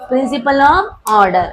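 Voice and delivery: very slow, drawn out; slow dictation. Shown as a demonstration. Teacher answering her own quiz question, slow. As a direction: lay out the name word by word. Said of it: "क्या बोलता है?".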